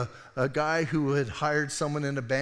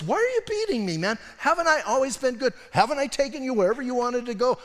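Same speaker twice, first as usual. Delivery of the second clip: much higher, loud pleading donkey; 9 semitones higher, 4 dB louder, faster than usual. Retold or imitated. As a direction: play the hurt donkey, pitched way up. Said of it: "so the donkey goes".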